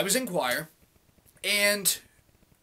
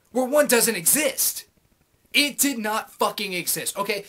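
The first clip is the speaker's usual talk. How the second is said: louder, slowed-down emphasis on every word; 2 semitones higher, 4 dB louder than usual. Real, not acted. Rant peak.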